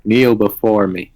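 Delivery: slow, imperious deity demanding worship; lightly voiced god, slow commanding words. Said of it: "role-playing so well".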